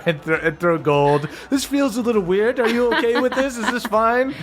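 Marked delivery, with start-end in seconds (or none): 1.5-4.3 higher, hesitant character voice; lightly voiced awkward visitor. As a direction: play it a bit unsure. DM voicing awkward booth visitor.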